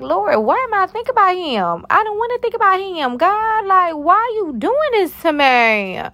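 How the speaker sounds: very high, hammed-up whine to God; frustrated wailing. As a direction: plead dramatically, stretching the last words. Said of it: "I was real frustrated".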